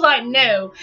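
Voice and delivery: laughing, high and loud. Real, not acted. Refusing the hot nature walk, laughing and loud.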